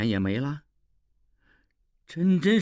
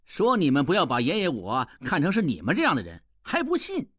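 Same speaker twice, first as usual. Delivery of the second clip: gloating farewell; 3 semitones higher than usual. Acted. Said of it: "拱手笑道".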